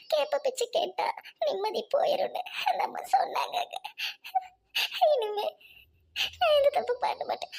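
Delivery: a whispered sob as she repeats the warning; a wife whispering through tears as she vows to change; crying whisper. Acted. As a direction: choke out the words while crying.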